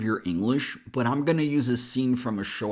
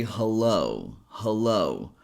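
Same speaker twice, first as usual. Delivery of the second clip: "hello" with a weak "huh", then a strong "LO"; stress on second syllable; 3 semitones lower, slower than usual. Shown as a demonstration. Teacher shows learners the word, stressing second syllable of "hello". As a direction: say "hello" as huh-LO, first vowel reduced to schwa. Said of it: "we emphasize the second syllable".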